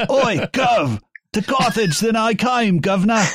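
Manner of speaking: put-on over-the-top British street accent, pitched high; mock British accent. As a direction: play a comic British Cockney reading Augustine. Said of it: "in a British accent and be like".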